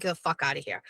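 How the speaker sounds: muttered dismissal. Retold or imitated. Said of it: "Now I'm just like".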